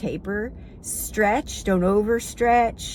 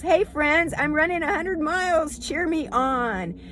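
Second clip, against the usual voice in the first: higher, bold and sure of it; confident announcement; 7 semitones higher than usual. Pretend. Runner boldly telling friends she's running a hundred miles, upbeat and sure. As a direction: declare it proudly, no doubt. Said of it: "No, you're running a hundred miles".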